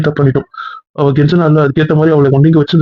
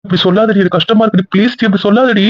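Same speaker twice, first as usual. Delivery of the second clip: higher-pitched, hurt plea; pained pleading; 5 semitones higher than usual. Acted. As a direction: beg them to stop, voice lifted. Hurt man pleads with partner. (வேதனையோடு உயர்ந்த குரலில் கெஞ்சல்)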